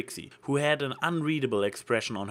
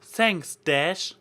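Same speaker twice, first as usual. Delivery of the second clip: sputtering; 6 semitones higher, 4 dB louder than usual. A narrator's reading. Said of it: "managed only to sputter out".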